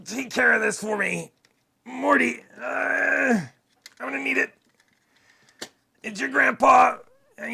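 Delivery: high, loud, strained Rick voice; high, loud Rick from Rick and Morty; Rick Sanchez. Pretend. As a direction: bellow it as a rambling old scientist grandpa. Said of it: "I can do Rick anyway".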